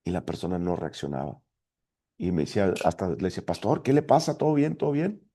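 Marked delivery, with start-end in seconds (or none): 3.5-5.3 high-pitched, puzzled checking-in; bewildered concern. Retold or imitated. Baffled church member asks the yelling pastor, bewildered concern. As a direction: imitate a baffled man, voice lifted high.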